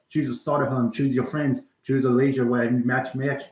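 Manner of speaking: put-on rattled-off Trainspotting monologue in Scottish accent. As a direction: recite the list like a Scottish film narrator. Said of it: "Now I gotta stop talking in a Scottish accent".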